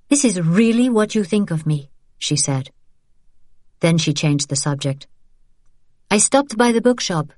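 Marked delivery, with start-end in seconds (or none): 0.1-1.9 put-on hurt young woman. Isabelle voiced. 6.1-7.3 put-on young woman voice. Isabelle voiced.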